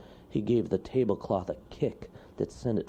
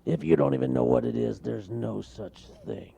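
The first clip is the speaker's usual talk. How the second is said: dismissive; 4 semitones higher than usual. Acted. Bear scoffs.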